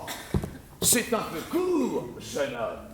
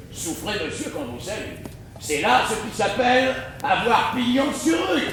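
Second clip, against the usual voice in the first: respectful; 2 semitones higher than usual. Acted.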